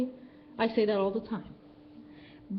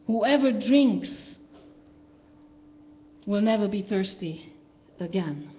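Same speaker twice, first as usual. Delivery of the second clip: slow, weighty declaration; grand and unhurried pronouncement; solemn Jesus proclamation; slower than usual. Retold or imitated. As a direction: proclaim it slowly like a prophet. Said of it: "when a guy comes and says".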